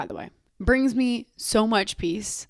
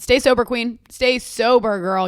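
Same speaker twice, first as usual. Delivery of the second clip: hype; 3 dB louder, slower than usual. Real, not acted. Cheering on listeners.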